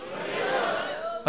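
breathy, voiceless echo; whispered reply. Real, not acted. Congregation answering the preacher, whispered. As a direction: whisper it back. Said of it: "A ver, diga".

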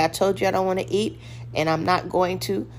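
quick, firm and matter-of-fact. Shown as a demonstration. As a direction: say it straight, no give. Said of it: "but don't say it in a little weak voice".

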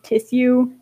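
"tissue" with plain s, tiss-you; deliberate mispronunciation. Shown as a demonstration. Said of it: "purposely say".

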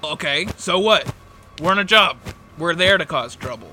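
a hint of a harsh brother brushing it off; brusque dismissal.

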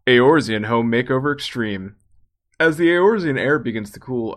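booming game show announcer. Pretend. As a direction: sell it like a TV promo announcer. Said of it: "I have to put on an announcer voice".

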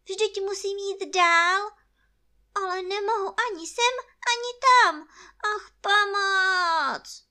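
very high, loud bear wailing; stretched-out cry for help at the end; distressed lament. A narrator's reading. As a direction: lament loudly, stuck and helpless. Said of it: "vzdychal Pů".

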